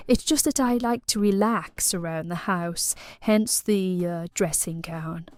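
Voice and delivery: put-on leisurely posh English accent. Client leading plumber upstairs in role-play, posh accent. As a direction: put on posh, suggestive hostess talk. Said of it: "I thought it was quite posh".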